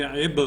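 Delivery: عب with an echoing bounce on the final b; qalqala bounce. Shown as a demonstration. Teacher showing students qalqala, bouncing the last letter of عب. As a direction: release the b of عب with a tiny extra puff of sound. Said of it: "قلقلے والے حرف کو اس طرح پڑھیں گے".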